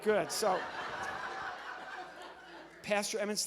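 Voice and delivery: ordinary delivery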